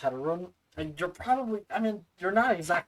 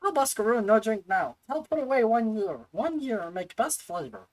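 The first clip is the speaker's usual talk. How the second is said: a proud little brewer; eager creature merchant; Tetaroon voice; 3 semitones higher than usual. Acted. Tetaroon brewing fire water.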